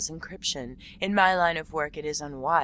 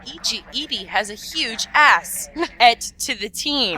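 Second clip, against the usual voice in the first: laughing; 7 semitones higher, 10 dB louder than usual. Real, not acted. Joking quote while cracking up.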